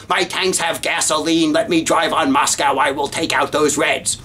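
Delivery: a hint of a hectoring general, mock shouting at the president; Patton yelling at Truman. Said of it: "practically screaming at President Truman".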